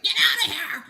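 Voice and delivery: loud high shout with a laugh; mock shout at mice. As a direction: yell at the mice in the box, half laughing. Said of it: "I was like".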